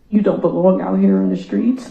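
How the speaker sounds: telling the killer off, firm; angry. Real, not acted. Addresses killer in court.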